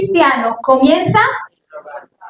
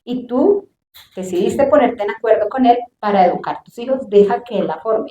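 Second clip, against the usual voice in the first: the Lord speaking; 3 semitones lower, 5 dB quieter than usual. Retold or imitated. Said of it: "Y el Señor me dijo".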